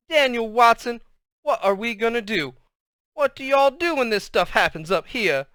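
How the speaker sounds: anxious Southern-style scolding; worried Southern. A narrator's reading. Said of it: "started talking Southern style when she got worried".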